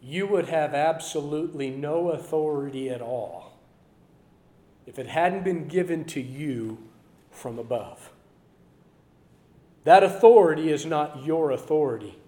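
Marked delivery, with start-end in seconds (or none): 0.0-8.1 Jesus answering calmly. Retold or imitated. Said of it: "maybe he said to him".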